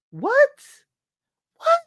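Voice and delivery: sharp high shocked What. Real, not acted. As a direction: react in disbelief, pitch jumping. Shocked reaction to the letter.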